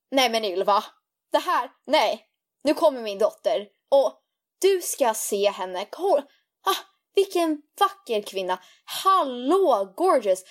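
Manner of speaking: a hint of a gushing mom, praising her daughter; mom's gushing friend voice. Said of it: "hon får en sådär annan röst".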